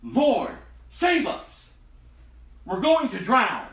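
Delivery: high, loud cry for rescue, drawn out at the end; frightened disciples shouting to wake Jesus; panicked shout. Acted. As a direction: yell it like men sinking in a storm.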